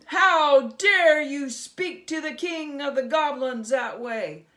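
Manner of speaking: outraged goblin king. Acted. Goblin king outraged at Herschel's insolence. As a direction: explode in offense.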